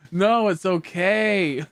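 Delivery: slow, soothing reassurance; calm them down slowly and gently; a gentle, drawn-out reassurance; reassuring. Retold or imitated. Reassuring the friend.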